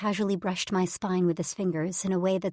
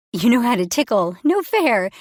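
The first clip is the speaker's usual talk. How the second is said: high, loud squealing protest; tickled squeal; 5 semitones higher, 10 dB louder than usual. A narrator's reading. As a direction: squeal it out while being tickled. Squealing while being tickled.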